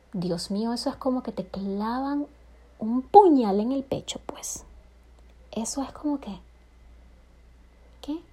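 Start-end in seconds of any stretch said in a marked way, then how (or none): 2.8-6.4 dramatic whisper, slowed down; hushed whisper of wounded disbelief; whispered hurt. Retold or imitated. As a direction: breathe it out like a confession of pain. Describing the hurt of exclusion.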